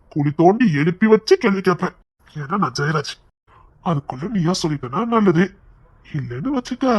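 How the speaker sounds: low-pitched, controlled menace; menacing threat. Acted. Interrogator warning a hunger striker to talk, menacing threat.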